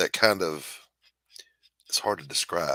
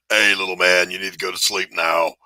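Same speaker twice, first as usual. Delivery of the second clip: put-on loud barked bedtime order to a toddler; drill-instructor lullaby; 7 dB louder than usual. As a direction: tell a small child to sleep in a full drill voice. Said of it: "my voice going".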